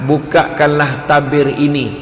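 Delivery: slow, stately divine command; Allah. Retold or imitated. God orders the angel to open the veil, solemn command. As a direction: call out grandly, then settle into measured authority. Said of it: "Allah Ta'ala beritahu".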